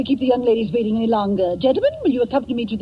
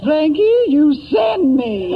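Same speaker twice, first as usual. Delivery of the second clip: gushing; 2 semitones higher, 3 dB louder, slower than usual. Acted. Headmistress gushing over Frankie.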